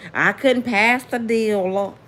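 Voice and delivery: slow Southern drawl on couldn't; southern pastor accent. Retold or imitated. Mocking the pastor who bought a plane, slow Southern accent. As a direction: mimic a Southern preacher, slow. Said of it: "that got the southern accent".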